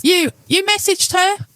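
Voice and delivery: high, stuttering disbelief; shocked stammer. A narrator's reading. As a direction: stammer it out in alarm.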